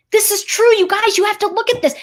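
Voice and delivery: half-yell it like someone begging to be heard; urgent mock shout. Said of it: "the person who is screaming".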